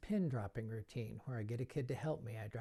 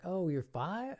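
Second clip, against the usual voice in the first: mock surprise; 5 semitones higher, 3 dB louder, slower than usual. Shown as a demonstration. Mock realization.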